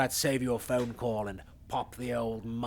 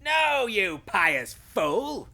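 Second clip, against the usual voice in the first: angry outburst; 9 semitones higher, much slower than usual. Acted. Insulting outburst.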